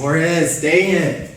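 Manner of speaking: loud, high burst of frustration; exasperated outburst. Real, not acted. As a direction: kick yourself over the missed answer, loudly. Kicking himself over missed answer.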